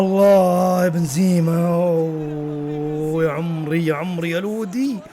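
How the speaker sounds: slow, long-stretched exclamation; drawn-out awe. Real, not acted. Fan reacting to Benzema and Lodi, long drawn-out exclamation. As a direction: stretch the vowels in amazement.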